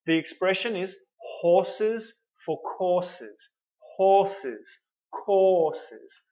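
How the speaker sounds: horses and courses said with a long open o; model o sound. Shown as a demonstration. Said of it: "It's this o sound".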